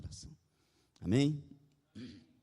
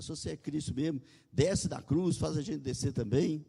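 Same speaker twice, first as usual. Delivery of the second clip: higher, louder mock demand; quarrelsome imitation; 5 semitones higher, 3 dB louder than usual. One thief railing at Jesus, acted quarrelsome challenge. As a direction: act out a moderately heated taunt. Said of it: "um dos ladrões briga, xinga".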